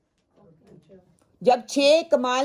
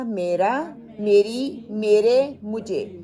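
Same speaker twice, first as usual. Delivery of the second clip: میرا میری میرے rising, مجھے falling; list drill; 3 dB louder, much slower than usual. Shown as a demonstration. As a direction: count off the forms with a rise on each, fall on the last. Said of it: "کیا مطلب دے گا؟".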